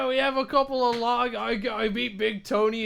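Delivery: hammed-up Cockney pub chat; mock Cockney accent. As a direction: carry on in a fake Cockney. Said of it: "I gotta do a Cockney accent".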